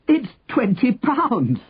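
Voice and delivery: high, drawn-out cry of amazement; excited yell. A narrator's reading. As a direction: yell it high and slow to the crowd. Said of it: "the man yelled".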